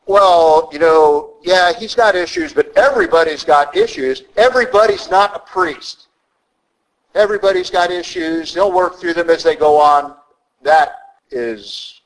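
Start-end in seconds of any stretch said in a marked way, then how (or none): 0.0-10.2 mock commentator. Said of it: "and they'll say".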